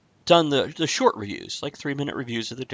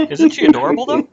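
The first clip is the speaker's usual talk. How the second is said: high cutesy voice; 10 dB louder, faster than usual. Pretend. Cooing over Gail on camera.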